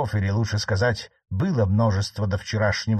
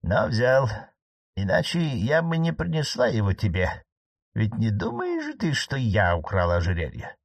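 marquise. Acted. Marquise reasons with nephew.

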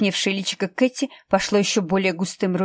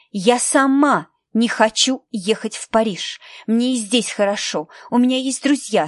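put-on raised, protesting girl's voice; upset teenage daughter; 3 semitones higher, 3 dB louder than usual. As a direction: argue back at mother, hurt and defiant. Katie argues with her mother. (возмущённая дочь спорит с матерью)

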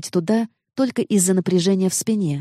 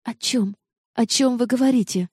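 shaky frightened voice; 4 semitones higher than usual. A narrator's reading. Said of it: "спросила я дрожащим голосом".

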